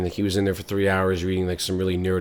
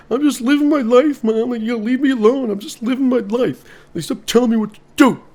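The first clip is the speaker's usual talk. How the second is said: put-on much higher, louder whiny girl; ditzy daughter; 7 dB louder than usual. Daughter snapping back at her mom, high and loud. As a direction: talk back to mom, airhead style.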